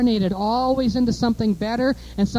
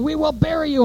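higher, mock Khrushchev threat; Khrushchev quote; 6 semitones higher than usual. Preacher quoting Khrushchev, in a higher mock threat. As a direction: growl it like a Soviet boss. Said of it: "Khrushchev was saying".

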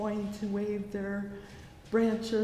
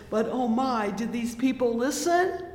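higher, louder pleading question; preaching at full force; 4 semitones higher, 8 dB louder than usual. Acted. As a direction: call it out to the congregation.

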